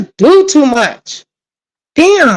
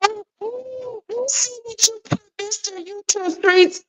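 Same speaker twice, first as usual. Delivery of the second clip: high, soft teasing put-on voice, much higher and quieter; mock squeal; 10 semitones higher, 11 dB quieter than usual. To Mister YouTube Streets in chat, a high soft teasing coo. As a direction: coo it up high like you caught him out. Teasing the chatter over his emoji.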